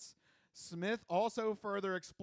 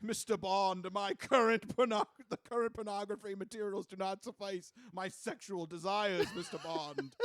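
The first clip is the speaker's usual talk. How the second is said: lightly voiced suave Bond villain; hint of a smug movie villain. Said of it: "the new villain for Bond twenty-five".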